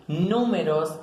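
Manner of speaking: "números" drawn out, stressed on the U. Shown as a demonstration. Teacher gives an esdrújula example, slow and stressed. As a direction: slowly lean on the first vowel of "números". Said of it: "en la U".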